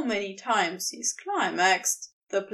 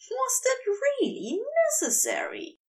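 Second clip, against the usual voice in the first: higher, pouty question through a smile; pouting Aziraphale; 11 semitones higher than usual. A narrator's reading. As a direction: tease him back with a pleased pout. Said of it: "trying to pout through a pleased smile".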